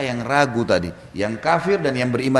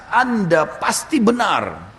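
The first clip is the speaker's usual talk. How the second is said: mild retold shout; 5 semitones higher, much slower than usual. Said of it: "teriak dengan suara keras".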